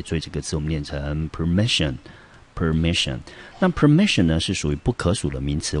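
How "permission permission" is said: "permission" with the stress on the middle syllable, MI; "permission", light first syllable, stressed second. Shown as a demonstration. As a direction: say "permission" as a teacher models it, per-MI-sion. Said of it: "重音节落在第二个音节".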